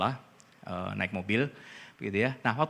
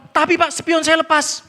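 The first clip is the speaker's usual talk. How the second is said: high, loud, drawn-out mock protest; insistent retold complaint; refusing to back down; 12 semitones higher, 6 dB louder, slower than usual. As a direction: imitate a stubborn driver protesting, stretched and high. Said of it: "masih nggak mau kalah".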